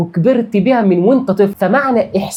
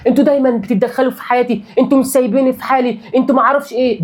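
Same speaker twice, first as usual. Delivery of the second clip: fast, higher, fed-up mock outburst; mock agitated complaint; 4 semitones higher, faster than usual. Imitating someone snapping at their parents, fed up and fast. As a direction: rattle it off like an irritated child to parents. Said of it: "بانفعال كده وبزهق".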